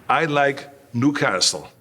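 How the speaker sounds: slow, careful repeat of "I like Newcastle", each word placed; a nervous newcomer echoing his cue slowly; hesitant repeat. Retold or imitated. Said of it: "And I said".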